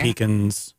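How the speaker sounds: "pecans" with a long ee, PEE-cans; pronunciation PEE-cans. Real, not acted. Host lists pie fillings, saying "pecans" as PEE-cans. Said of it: "Is that how you pronounce that?".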